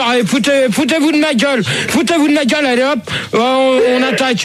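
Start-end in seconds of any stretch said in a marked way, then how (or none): 0.0-3.0 higher-pitched sore complaint; indignant. Real, not acted. Host fed up with prank caller names, indignant. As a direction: complain that they are mocking you.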